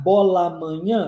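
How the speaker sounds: fuse the two A sounds in "bola amanhã"; linked vowels. Shown as a demonstration. Teacher comparing with Portuguese linking, "bola amanhã" as one word. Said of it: "A gente faz isso em português também".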